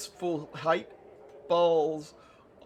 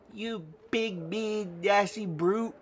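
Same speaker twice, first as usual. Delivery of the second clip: higher, halting mock scolding with BRUTE barely stressed; timid insult; 5 semitones higher, slower than usual. Nanny practices insulting the player, high and half-hearted on "brute". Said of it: "Put more accent on brute".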